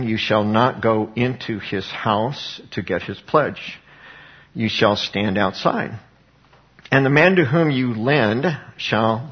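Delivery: slow, measured reading of the law; scripture reading. A narrator's reading. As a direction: read it out deliberately, phrase by phrase. Reads scripture aloud to congregation.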